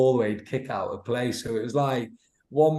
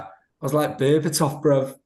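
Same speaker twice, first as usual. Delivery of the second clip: cocky boast; 3 semitones higher, 5 dB louder than usual. Retold or imitated. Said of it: "he was like".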